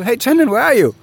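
high, loud phone greeting; excited call. Retold or imitated. To Chandon on the phone, an eager loud hello. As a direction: call out eagerly to the lost partner. Calling partner who vanished.

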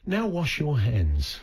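slow, measured announcer line; talking toilet announcement. Shown as a demonstration.

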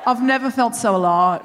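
imitated Australian driver; mock Australian bloke's voice; Australian accent. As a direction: declare it in a put-on Australian accent. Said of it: "I'm going to do the accent".

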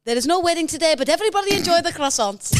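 put-on French bride accent. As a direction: announce it proudly in a French accent. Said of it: "you're a French bride".

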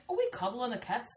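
imitated Scottish Love Island contestant; lilting Scottish impression; Scottish accent. Shown as a demonstration. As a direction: put on a cutesy Scottish accent. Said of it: "What was the girl on Love Island saying?".

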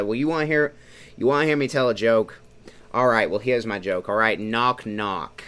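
put-on light Tom Hanks-style New York accent; Brooklyn New Yorker accent. Imitating a film character telling a joke, mild New York accent. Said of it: "New Yorker accent".

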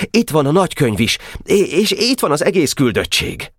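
put-on high, quick boyish report; eager boy delegate. (izgatott kisfiús hadarással)

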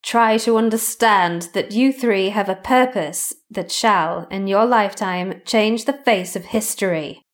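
different voice. Acted. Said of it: "say this in a different voice".

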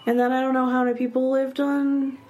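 breathy whisper. Real, not acted. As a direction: whisper it like a secret. Sudden whisper aside.

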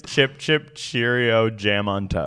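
lightly piped birdsong rhythm; a hint of a bird's chirp; robin song imitation. Mildly chirping the robin's call to a friend. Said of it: "Like, it's".

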